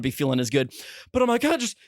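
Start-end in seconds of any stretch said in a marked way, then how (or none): 1.5-1.8 high-pitched mock panic; pitched-up pretend scream; retold screaming. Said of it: "I'm screaming".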